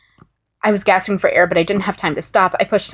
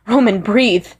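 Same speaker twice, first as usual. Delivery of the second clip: urgent raised shout; yelled; 3 semitones higher, 4 dB louder, slower than usual. Acted. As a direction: yell at him to breathe. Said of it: "I yelled at him".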